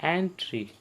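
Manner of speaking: "एंट्री" begun on a clear ए; teacher modelling ए at the start of "एंट्री"; ए sound demo. Shown as a demonstration. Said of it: "ए पढ़ेंगे".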